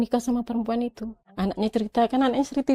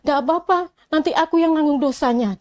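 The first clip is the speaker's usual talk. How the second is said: higher, louder dismissive comeback; defiant retort; 7 semitones higher, 7 dB louder than usual. Retold or imitated. Husband brushing off his wife's warning about sin, loud and defiant. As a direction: toss it back loud and careless.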